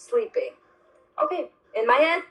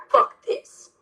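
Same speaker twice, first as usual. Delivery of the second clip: hushed breathy cursing; whispered fuck this; 3 semitones higher, much slower than usual. Real, not acted. Dismissing the couple's idea in a whisper. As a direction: whisper it in disgust.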